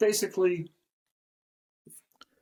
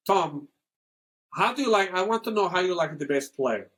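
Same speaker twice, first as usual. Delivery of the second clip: lightly put-on Italian accent; a hint of an Italian asking Tom a question. Imitating an Italian friend asking about a player, light Italian accent. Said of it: "there are different accents in Italy".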